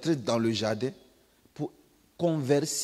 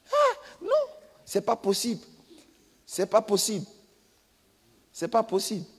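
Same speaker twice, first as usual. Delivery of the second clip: mock protest; 6 semitones higher than usual. Child refusing to scream.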